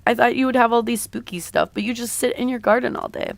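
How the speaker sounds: a light touch of disappointment; disappointed. Acted. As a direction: voice a girlfriend's mild letdown. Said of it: "she's disappointed".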